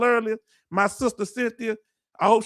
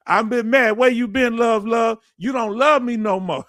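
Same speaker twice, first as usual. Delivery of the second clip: louder, playful fake wounded complaint; mock hurt; 3 semitones higher, 4 dB louder than usual. Teasing a returning viewer for staying away, mock hurt and louder. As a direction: pretend to sulk at a friend who vanished.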